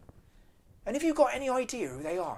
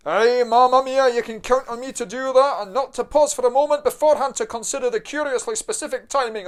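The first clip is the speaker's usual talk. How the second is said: put-on broad Scottish accent; 3 semitones higher, 6 dB louder than usual. Son answers in Scottish voice.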